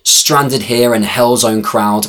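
indignant outcry. Acted. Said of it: "I exclaim out loud".

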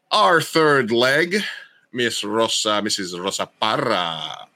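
slow, drawn-out build to the name; announcer-style guest introduction. Real, not acted. Host bringing on the third leg of the show, announcer-style introduction.

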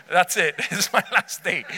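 laughing through mock resignation; amused, hammed-up giving up; joking doom. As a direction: play doomed with a laugh. Jokingly plays doomed Saul.

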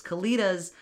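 gushing. Real, not acted. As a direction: say Kalitas like you adore them. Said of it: "gush about these Kalitas".

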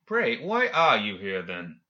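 slow, leisurely curiosity; unhurried, lightly curious question, emphatic at the start. Acted. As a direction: ask with mild, unworried interest. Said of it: "more curious than concerned when he said".

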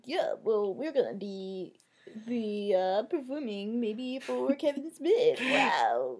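halting quote, slowing toward the end; retold pushy Craig. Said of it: "does that kind of pushy thing".

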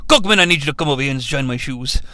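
imitating a lordly old Brit summoning his robot; Anthony Hopkins as Sir Edmund. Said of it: "I do love the way that he says".

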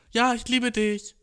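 slow, high, sugary imitation; mock high voice. Coworker telling his girlfriend he loves her, high mock coo.

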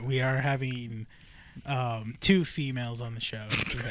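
slow, soft, hesitant announcement; timid. Real, not acted. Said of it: "like, timidly".

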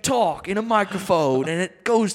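mock movie trailer voice. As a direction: ham up a blockbuster voiceover.

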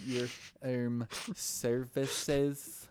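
hesitate, then draw out the euphemism; awkward, weird request. Retold or imitated. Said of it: "he always says it".

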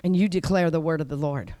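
low, soft declaring; hushed so they won't hear; quiet declaration. Retold or imitated. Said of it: "I did it very quietly".

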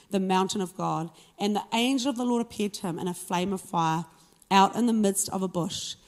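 measured Bible narration, phrase by phrase; scripture reading. A narrator's reading. Preacher reads the burning bush story to the congregation, measured scripture reading. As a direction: read the passage out with firm phrase openings. Reads Exodus passage aloud.

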